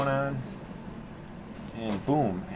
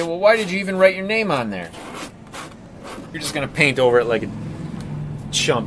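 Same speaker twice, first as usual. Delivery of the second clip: mock heckler voice; 4 semitones higher, 4 dB louder than usual. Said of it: "So you might say".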